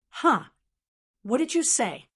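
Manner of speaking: mildly shocked, sharp rise in pitch. A narrator's reading. Clan elder hearing unwelcome news from a disciple, shocked. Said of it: "Long Zhanwu was shocked".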